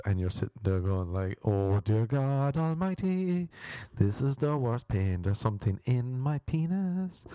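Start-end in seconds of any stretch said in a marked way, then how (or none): 1.4-7.2 drawn-out cry to God, climbing higher; hammed-up suffering, pitch rising as it goes; mock agony. Patient during a swab test, mock agony.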